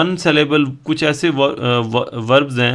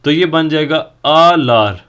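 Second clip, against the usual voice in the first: आलार drawn out slowly, syllable by syllable; slow teacher's reveal of आलार; slow, spelled-out answer. Shown as a demonstration. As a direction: lay out the result slowly for students. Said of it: "इसके साथ हमने simple क्या लगाना है".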